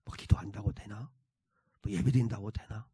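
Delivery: low, soft defeated mumble; listless apathy. Acted. Believer with sick faith doubting prayer and worship, listless and low. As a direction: give up, expecting nothing from any effort. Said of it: "무기력한 상태예요".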